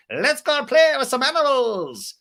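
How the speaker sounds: put-on Brock done in a high Irish accent; slow, high, mock Irish lilt. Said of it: "That's a Irish accent".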